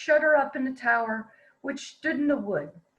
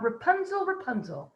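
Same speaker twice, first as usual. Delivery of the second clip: calling up the tower; 3 semitones lower than usual. Acted. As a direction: sing the name up to the window. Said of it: "call out".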